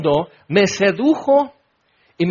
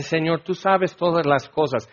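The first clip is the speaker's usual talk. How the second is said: sad Peter; 2 semitones lower, 5 dB quieter than usual. Acted. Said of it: "se pone triste y dice".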